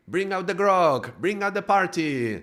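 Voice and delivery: rally the crew to celebrate; rowdy party call. Acted. Ego's crew starts partying.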